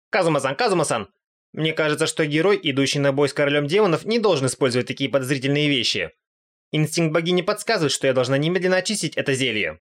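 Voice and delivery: worried goddess. Acted. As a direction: scold him about the shady potion. Aqua warns about potion. (встревоженная богиня, голос повыше)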